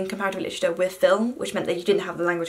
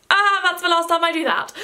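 imitating friend; 8 semitones higher than usual. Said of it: "And then be like".

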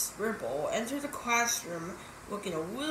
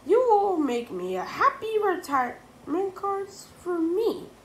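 high, loud teacher voice; stern teacher; 11 semitones higher, 8 dB louder than usual. A narrator's reading. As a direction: give the order like a stern teacher.

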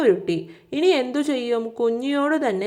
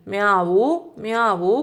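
lightly voiced meow, lifting at the end; imitated kitten cry; much slower than usual. Teacher letting children hear Kunji the cat, mock kitten meow. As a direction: mimic a crying kitten. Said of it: "കുഞ്ഞി പൂച്ചയുടെ കരച്ചിലല്ലേ കേൾക്കുന്നത്".

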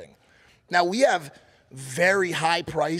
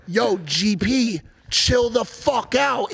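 firm intervention; 6 semitones higher, 4 dB louder, slower than usual. Retold or imitated. Retold attempt to stop GP.

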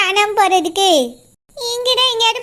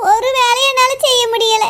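crying. Acted. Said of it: "நீ தான் இப்படி அழுதுட்டு இருக்க".

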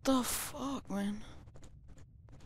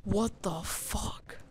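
whispered swear; slower than usual. Real, not acted. Startled by noise in dark.

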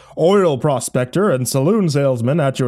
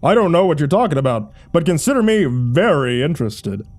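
eager interest; 5 semitones higher, 4 dB louder than usual. A narrator's reading. Jerry eagerly answers the offer.

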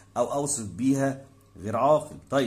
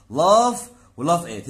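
slow teaching read; 3 semitones higher, 7 dB louder, much slower than usual. Shown as a demonstration. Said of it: "teacher reads vocabulary".

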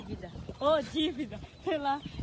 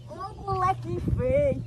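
loud scold; 5 semitones higher, 13 dB louder, slower than usual. Real, not acted. Scolding the boy.

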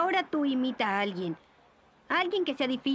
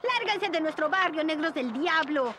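shouting; 4 semitones higher than usual. Acted. Kid shouting at bus.

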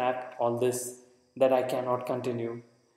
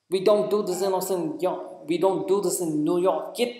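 much higher and louder New York cop yelling; roaring bellow; 6 semitones higher, 6 dB louder than usual. Acted. Cop bellowing at some unfortunate kid, loud roar. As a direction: bellow it down the street like a tough cop. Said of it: "the roaring cop bellowed at some unfortunate".

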